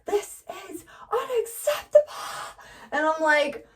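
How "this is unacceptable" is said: high, strained cartoon cry; a wailing lemon-candy character; Lemonhead voice. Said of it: "Lemonhead from Adventure Time, where he goes".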